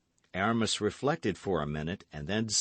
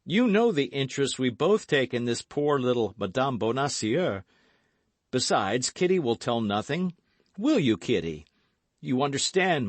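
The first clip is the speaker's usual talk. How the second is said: loud, raised-pitch earnest hero; confiding young gallant; 6 semitones higher, 5 dB louder than usual. A narrator's reading. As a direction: explain insistently, voice raised. D'Artagnan confides, reassures.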